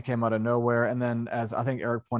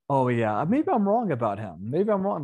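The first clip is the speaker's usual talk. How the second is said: mock naive musing; 3 semitones higher than usual. Mocking Alex's change of heart.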